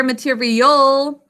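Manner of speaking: "material" slowly as muh-teer-ee-OLE; "material" slow, its ending held long; syllables stretched out. Shown as a demonstration. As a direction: draw out the last syllable of "material". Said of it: "that al suffix".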